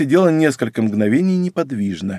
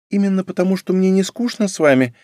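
tender voice; 8 semitones higher, faster than usual. A narrator's reading. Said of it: "своим нежным голосом".

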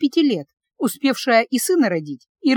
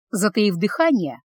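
ordinary delivery, nothing marked

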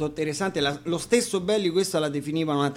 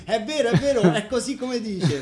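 chuckling through a sing-song quote; laughing mock chorus; 3 semitones higher than usual. Singer jokingly echoes the audience's yes-men, laughing. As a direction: laugh as you echo the crowd's chant. Quoting the crowd's sung reply.

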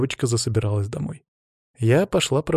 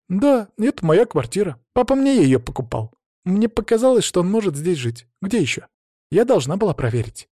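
lightly voiced young girl, higher and upset; a teen girl telling her dad what happened; hint of a hurt young daughter; teenage daughter; 8 semitones higher, 3 dB louder than usual. Tonya explains.

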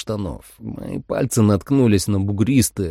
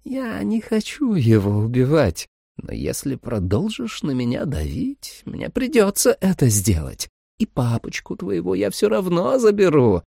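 sweet vampire mother; 9 semitones higher than usual. A narrator's reading. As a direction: lull the girl with fake tenderness.

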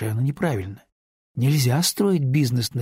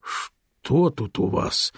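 astonished; much slower than usual. Acted. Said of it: "изумлённо произнёс Радислав".

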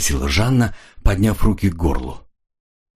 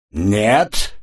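bursting out with a much higher pitch; вспылив; exploding; 8 semitones higher, slower than usual. A narrator's reading. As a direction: snap back, refusing to drop it. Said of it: "взорвался Ян".

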